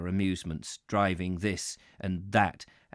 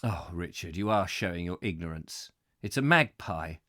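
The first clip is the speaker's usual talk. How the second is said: imitating his father; 3 semitones lower than usual. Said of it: "And he would say".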